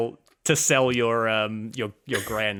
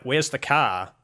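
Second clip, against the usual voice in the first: Kiwi accent demo, close to usual voice; New Zealand accent, lightly pointed for comparison; 2 semitones higher, slower than usual. Shown as a demonstration. New Zealander shows how locals say it, New Zealand accent. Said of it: "And we're like".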